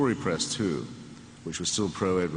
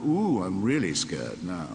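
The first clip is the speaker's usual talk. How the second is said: sarcastic; slower than usual. Pretend. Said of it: "And I thought".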